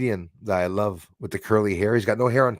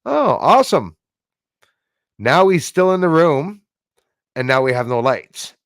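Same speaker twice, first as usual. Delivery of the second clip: sarcastic exclaim; 5 semitones higher, 7 dB louder than usual. Retold or imitated. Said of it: "and I said".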